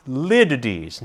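"lidides" said LID-uh-deez. Shown as a demonstration. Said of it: "It's pronounced litites".

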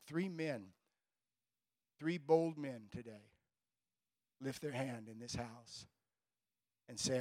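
building pastoral prayer, swelling then hushing to a close; fervent prayer. Acted. Pastor praying over three new believers, fervent then hushed. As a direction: pray over the men, rising then softening at the end.

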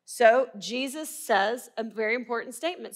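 normal talking voice

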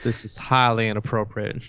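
put-on Southern US accent; lightly hammed-up southern altar boy. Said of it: "your southern accent".

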